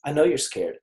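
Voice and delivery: soft, quiet reassurance; an arm round the shoulder, gently; gentle comfort to a scared client; reassuring. Retold or imitated. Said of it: "be like".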